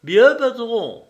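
high, slow obedient answer; subordinate's reply. A narrator's reading. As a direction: answer the boss dutifully.

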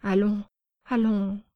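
gentle begging to calm her; pleading. Acted. Uncle pleading with the upset girl to calm down. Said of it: "suppliait Parmione".

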